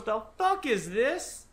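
mom's shocked question. Retold or imitated. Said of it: "my mom don't cuss".

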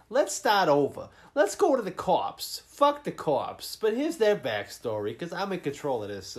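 lightly voiced bossy detective; imitating the detective. Mocking the film's detective to friends, lightly put-on bossy voice. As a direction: take charge, in mild mockery of her. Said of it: "she's like".

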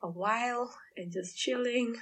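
hoarse, sleepy morning voice. Real, not acted. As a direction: talk with a rough just-woke-up throat. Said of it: "my nice hoarse morning voice".

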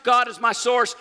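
loud, high preacher's proclamation; shouted declaration. Acted. Tithe speaking for the giver, shouted declaration. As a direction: shout it out as a bold confession. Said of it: "your tithe shouts".

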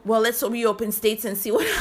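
laughing through the words; chuckling nervously mid-sentence. Real, not acted. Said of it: "That's a nervous laugh".

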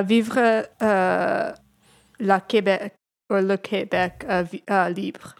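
hesitant French reading of "Vivre la Québec"; French pronunciation. Shown as a demonstration. Contestant asked to say it in French, hesitant French. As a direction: feel your way through the French words. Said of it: "Say it in French".

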